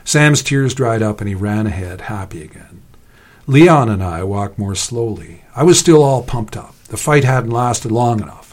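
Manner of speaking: measured story reading voice; story narration. A narrator's reading. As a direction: read the fight as a told story.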